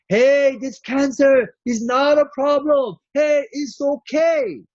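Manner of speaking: high, lifted encouraging voice; upbeat reassuring quote. Retold or imitated. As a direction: lift it up and cheer them on.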